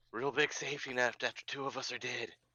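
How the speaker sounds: whispering. Playing a character, the speaker mutters behind another character's back, whispered. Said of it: "I whisper behind him".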